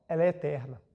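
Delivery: hushed, breathy aside on the key word; whisper. Real, not acted. Lecturer whispers the punchline to his audience, hushed. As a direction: drop to a whisper to make it sink in. Lecturer's dramatic point on eternity.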